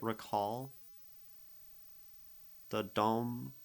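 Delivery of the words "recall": re-CALL, second syllable stressed. Shown as a demonstration. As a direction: recall with the weight on call, the voice rising at the end. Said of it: "The way I say it".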